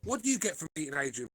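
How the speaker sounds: choppy garbled internet audio; breaking-up call. Real, not acted. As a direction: voice cutting out robotically. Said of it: "he can't hear us".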